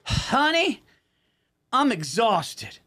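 high "Honey", then slow, drawn-out exhaustion; weary cashier. Retold or imitated. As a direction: play the worn-out server sighing. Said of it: "she goes".

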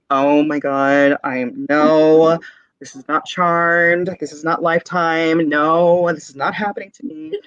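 slow, drawn-out dramatized dread; mock panic. Retelling a head held down at the blessing, mock panic. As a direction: draw out the mild disbelief.

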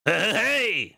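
high yell that cracks. Real, not acted. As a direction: let the voice break on the shout. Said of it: "That was a voice crack and a half".

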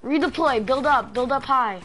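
urgent commands. Real, not acted.

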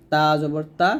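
light "তা" with open aa; thin letter. Shown as a demonstration. Teacher contrasting letters for learners, "তা" said thin. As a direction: say "তা" thin, without rounding. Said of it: "পাতলা হবে".

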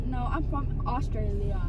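put-on British accent, claiming to be Australian. Telling them she's from Australia, in a put-on British accent. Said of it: "I'm gonna talk in my British accent".

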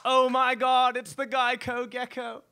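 loud, high starstruck squeal; mock fan excitement. Fan spotting the gecko, hammed-up high squeal. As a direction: gush like a fan spotting a celebrity. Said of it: "I know what you're thinking".

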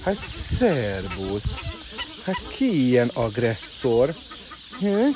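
slow, drawn-out cooing to a bird; tender greeting. Real, not acted. (lassú, gyengéd becézés)

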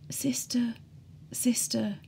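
faint whispered call from a sickbed; weak patient whispering for the nurse; soft whisper. Retold or imitated. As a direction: breathe the name out softly, calling for help. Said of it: "his soft whispering voice would call".

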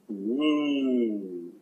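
soft, drawn-out falling "mm"; long musing hum. Acted. Mock savoring the card's message.

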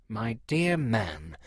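slow, hushed, softened voice; soft whisper. A narrator's reading. Parson gently haggling with the seller, softly hushed. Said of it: "he whispered softly".

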